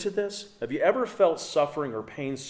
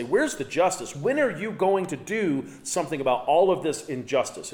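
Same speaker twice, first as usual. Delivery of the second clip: mildly raised, challenging cry to God; 4 semitones higher than usual. Retold or imitated. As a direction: voice lifted in demanding questions. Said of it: "raise his voice to God and say".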